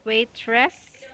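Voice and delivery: "waitress" in two clear parts, wait-tress; full "tress" vowel in "waitress", rising at the end; syllable demonstration. Shown as a demonstration. Teacher building up the word for student, "waitress" clearly sounded out. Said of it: "yes, we have wait".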